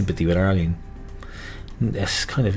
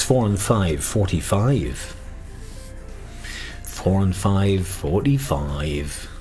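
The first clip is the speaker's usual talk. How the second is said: bingo caller; much slower than usual. Acted. Slow drawn-out bingo call.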